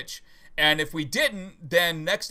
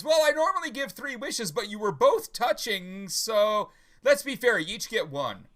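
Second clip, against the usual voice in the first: lightly voiced genie, higher pitched; 6 semitones higher than usual. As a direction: stretch it out as a joke genie, mostly higher. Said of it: "the genie pops out".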